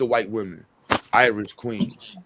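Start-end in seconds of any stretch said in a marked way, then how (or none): 1.1-2.2 imitating Umar. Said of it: "he went through a whole list".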